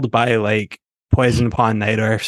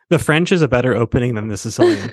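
over enunciating. Shown as a demonstration. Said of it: "talk to you like you're stupid".

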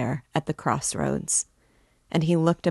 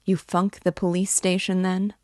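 jeering; 4 semitones higher than usual. Acted. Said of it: "said Raskolnikov jeeringly".

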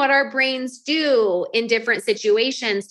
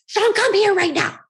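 stern summons; 8 semitones higher than usual. Retold or imitated. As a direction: call him down like he's in trouble. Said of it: "I was like".

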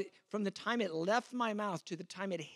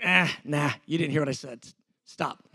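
louder, curt brush-off; dismissive retort; 3 semitones lower, 6 dB louder than usual. Retold or imitated. Preacher showing how he answers on a bad day, curt. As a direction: snap it away, impatient. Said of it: "normal slash bad day, I'm like".

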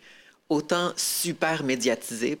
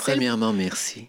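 honeyed voice. Real, not acted. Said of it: "une voix mielleuse pour les remerciements".

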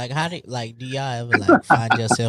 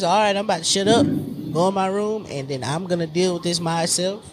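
imitating a boy; 4 semitones higher than usual. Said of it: "All we know is".

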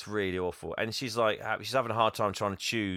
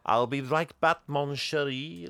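creepy banker; 6 semitones higher, 3 dB louder than usual. Retold or imitated. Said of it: "he's like".

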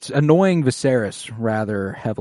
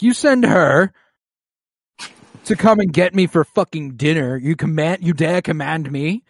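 mock angry Viserys; 6 semitones higher, 4 dB louder than usual. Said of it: "because he's like".

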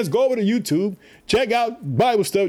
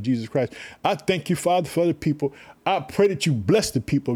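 closing prayer; 2 semitones lower than usual. Real, not acted. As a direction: pray earnestly on behalf of others.

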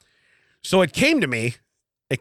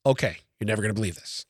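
Italian gossip voice; 7 semitones lower, 7 dB quieter, faster than usual. Pretend. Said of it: "reading it, like, with an Italian dialect".

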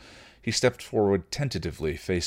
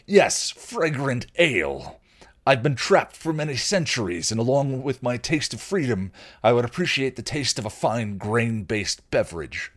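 pompous troll; 5 semitones higher, 5 dB louder than usual. Acted. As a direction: savour each word like an old troll. Troll savours freedom and ale.

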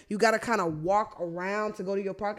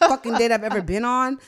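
laughing; 3 semitones higher, 6 dB louder than usual. Real, not acted. Punchline of the awkward date.

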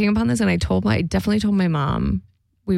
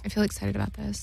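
hushed excited whisper; 8 dB quieter than usual. Real, not acted. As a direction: whisper it with glee. Whispered reply.

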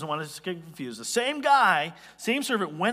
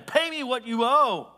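louder, higher, drawn-out demand; angry yell; 6 semitones higher, 5 dB louder than usual. Acted. Servant yelling at the man who owes him, angry yell. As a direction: yell it slowly at a debtor. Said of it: "he's yelling at him".

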